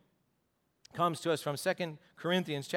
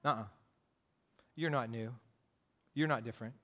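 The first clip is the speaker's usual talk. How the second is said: low, soft devil's whisper in the ear; much lower and softer, a sly devil whispering doubt; 8 semitones lower, 7 dB quieter, faster than usual. Acted. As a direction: hush it low and soft like a tempter. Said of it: "the devil whispers into our ear".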